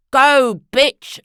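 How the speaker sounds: loud shrieking encouragement; cheering on. A narrator's reading. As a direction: egg the dog on with glee. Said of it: "applauded Missus Trumbull".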